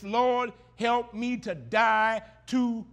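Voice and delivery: slow, weighty plea to the Lord; prayer refrain. Acted. Preacher leading the congregation in prayer, slow plea. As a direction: pray it slowly, meaning every word.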